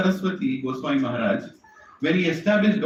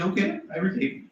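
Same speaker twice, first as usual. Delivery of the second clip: softer, lightly voiced Radha; a hint of a shy girl, a touch higher; Radharani agreeing; 3 semitones higher, 5 dB quieter than usual. Radharani accepting honey, gently voiced. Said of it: "And Radharani says".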